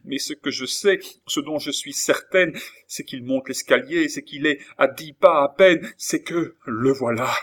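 high, mounting urgency; panicked cry. A narrator's reading. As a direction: build clause by clause to a loud alarm. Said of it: "s'écria Lorenza".

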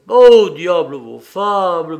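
loud, drawn-out dismissal; exasperated, booming interruption; impatient outburst. A narrator's reading. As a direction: cut him off with a loud groan of words. Belzoni cuts off the fable.

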